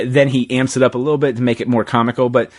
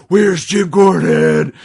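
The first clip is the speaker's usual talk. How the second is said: higher, louder, slow mock panic; panicked quote; 7 semitones higher, 4 dB louder, much slower than usual. Batman panicking about Gordon in the parody, slow and loud. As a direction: drag the question out in alarm. Batman freaking out in retold bit.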